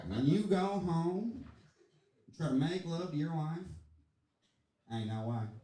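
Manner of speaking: slow, earnest wrestler lament; Jake the Snake. Retold or imitated. Wrestler telling the cameraman about home life, real serious. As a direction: draw it out, sinking at the end. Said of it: "he's getting real serious with the cameraman".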